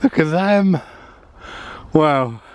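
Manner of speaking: excited. Real, not acted. Amazed at molehills.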